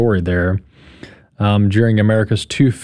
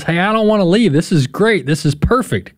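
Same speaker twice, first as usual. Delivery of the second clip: higher-pitched, imitating a delighted visitor; enthusiastic mock quote; 6 semitones higher than usual. Host quoting a German soccer fan who won't leave, enthusiastic. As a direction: voice a tourist who loves it.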